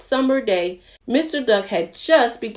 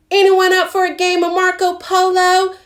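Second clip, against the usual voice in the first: much higher, loud invitation; high loud pig call; 9 semitones higher, 6 dB louder than usual. Acted. Pig shouts a game to everyone, high and loud. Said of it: "called Pig".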